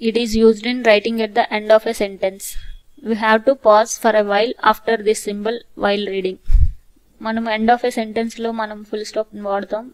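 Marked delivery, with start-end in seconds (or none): 0.1-6.4 very slow, steady reading; slow repeat. Shown as a demonstration. Teacher repeating the full stop rule slowly.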